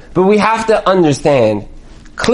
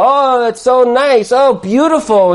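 feigned admiration; 5 semitones higher than usual. Acted. Distracted parent praising child's doodle.

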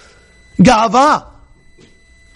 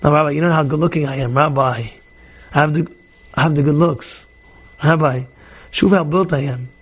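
bragging guy; 5 semitones lower than usual. Retold or imitated. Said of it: "Don't think you're hot stuff".

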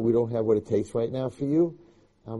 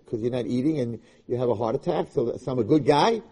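higher, mocking voice for a tempting easy way out; mock self-justifying; 4 semitones higher than usual. Rabbi mocking the easy yes to the girl, sarcastic and higher. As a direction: ham up a people-pleaser talking himself into yes. Rabbi mocks his own people-pleasing.

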